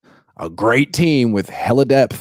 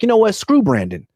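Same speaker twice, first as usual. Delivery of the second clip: fed-up fans; 8 semitones higher than usual. Retold or imitated. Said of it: "Niner fans are like".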